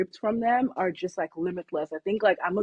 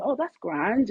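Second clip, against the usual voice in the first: put-on Irish accent; 4 semitones higher, slower than usual. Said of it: "switch into my Irish accent".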